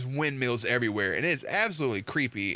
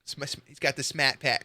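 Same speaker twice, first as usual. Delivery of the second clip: fumbling imitation of a Boston accent; halting, clumsy Boston accent; attempted Boston accent. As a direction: try and fail at Boston speech. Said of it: "I can't do it".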